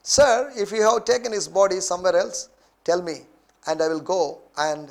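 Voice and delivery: slow, emphatic Bible reading; scripture reading. A narrator's reading. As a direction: read the verse out to a congregation, opening high. (నిదానంగా, నొక్కి చెబుతూ వాక్య పఠనం)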